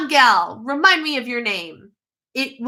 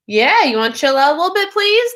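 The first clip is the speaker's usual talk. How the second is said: quicker, louder, with a high pleading "please?"; coaxing, higher and firmer; insistent repeat; 6 semitones higher, 4 dB louder than usual. Real, not acted. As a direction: push the request harder the second time. Repeats the request more insistently.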